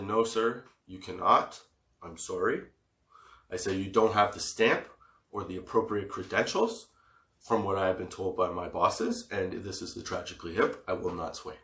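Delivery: low, polite but firm guard; mock-official refusal. Security guard refusing band entry.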